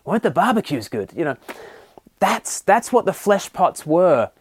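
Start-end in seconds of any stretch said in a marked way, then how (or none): 0.1-1.1 mock nostalgia. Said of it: "They were".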